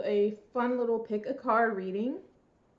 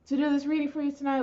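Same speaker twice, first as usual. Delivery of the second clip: out of breath; 5 semitones higher, much faster than usual. Real, not acted. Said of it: "why am I so out of breath".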